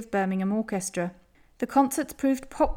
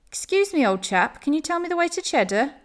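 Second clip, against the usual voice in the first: politely asking, higher pitch; courteous question to a stranger; 6 semitones higher than usual. A narrator's reading. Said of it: "he asked politely".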